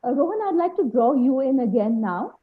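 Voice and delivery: very quiet, faint voice; speaking too softly to hear; barely audible. Real, not acted. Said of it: "your voice is very low".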